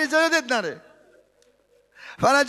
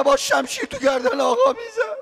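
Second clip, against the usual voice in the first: crying; 11 semitones higher than usual. Real, not acted. Preacher to mourners, breaking into real tears. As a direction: voice breaking high into a sob.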